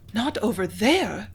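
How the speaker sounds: slow, stricken gasp of dismay; a secretary hearing he may go to war, gasping slowly; gasped in alarm. Acted. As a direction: let the words catch in shock. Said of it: "Ethel gasped".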